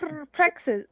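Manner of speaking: "perplexes" with the R trilled; rolled R. Acted. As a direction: purr through the R of "perplexes". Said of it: "Brick can't roll her R's".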